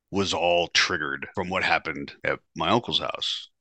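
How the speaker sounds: ordinary delivery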